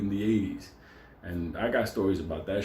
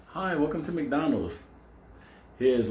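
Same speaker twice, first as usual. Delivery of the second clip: higher, sing-out customer welcome; chirpy server greeting; 4 semitones higher than usual. Acted. Country fast-food server greets a customer, chirpy. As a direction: greet like a small-town fast-food cashier. Voices a friendly small-town server.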